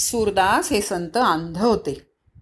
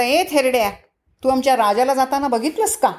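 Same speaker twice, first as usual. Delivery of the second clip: brusque, mildly insolent question; rude soldier; 3 semitones higher than usual. Acted. Soldier demanding news of his king from an old man, rudely. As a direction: ask it rudely, pitched a little up and quick. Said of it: "कोण उर्बटपणाने बोललं?".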